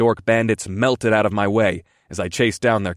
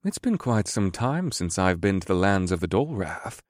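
whimsical; 5 dB quieter than usual. Acted. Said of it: "Scourge said in a whimsical tone".

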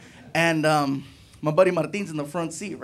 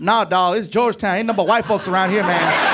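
street driver; 4 semitones higher, 3 dB louder, slower than usual. Retold or imitated. Driver joking about Georgetown.

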